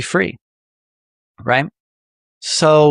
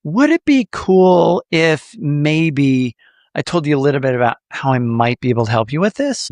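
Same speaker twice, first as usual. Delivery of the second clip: soft, polite ask. Shown as a demonstration. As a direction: ask softly and tentatively. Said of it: "get permission instead of being pushy".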